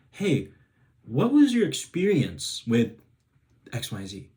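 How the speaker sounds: positive neutral tone. Shown as a demonstration. Coach showing a child how to ask a parent gently. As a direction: ask it gently and openly, not attacking. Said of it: "Notice how my voice is gonna change".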